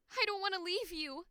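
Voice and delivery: high, loud plea; desperate outburst. Acted. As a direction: cry it out desperately. Loud take after soft one.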